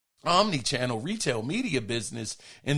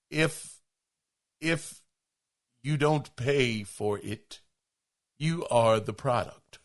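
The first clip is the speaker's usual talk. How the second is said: poor impression, slow with long pauses; slow, measured narrator delivery, lightly attempted; Morgan Freeman; 4 semitones lower, 3 dB quieter, slower than usual. Shown as a demonstration. Host trying a listener's requested impression on an old adage, halting mock Morgan Freeman. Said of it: "Do it in my best Morgan Freeman voice".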